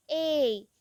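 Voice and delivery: ए held long and slow like a teacher showing it; long vowel. Shown as a demonstration. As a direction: stretch ए out slowly as a long vowel. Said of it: "long pronounce हो रहा है".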